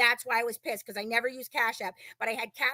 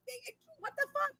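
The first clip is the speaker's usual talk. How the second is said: exasperated squeak; 10 semitones higher, 12 dB louder, faster than usual. Retold or imitated. Retold exasperated reply.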